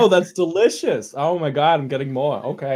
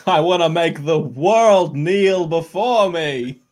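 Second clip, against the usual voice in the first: dopey cartoon oaf; 3 semitones higher, 4 dB louder, slower than usual. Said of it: "Don't be a voice".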